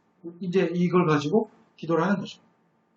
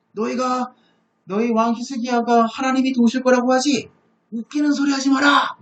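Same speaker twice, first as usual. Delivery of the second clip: raised-pitch taunt of an enemy envoy; insulting taunt; 4 semitones higher than usual. Retold or imitated. Envoy taunting Jerusalem about its king's faith, insulting. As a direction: deliver it as a scornful warning to the besieged. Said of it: "하나님을 모욕하면서".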